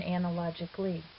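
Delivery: analogically stressed on LOG, ana-LOG-ically. Shown as a demonstration. Teacher showing English accents change with word length, stress on the O. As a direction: lean on the O of analogically. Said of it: "the accent there is on the O".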